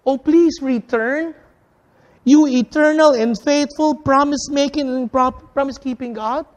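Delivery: earnest, slowed plea to God; pleading prayer. Acted. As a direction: lean into the longing of the prayer. Preacher voicing Moses' prayer.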